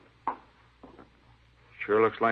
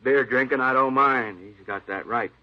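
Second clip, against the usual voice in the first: indignant outburst; 3 semitones higher, 4 dB louder than usual. Acted. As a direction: lay down the law he already made clear. Manager indignant about broken rule.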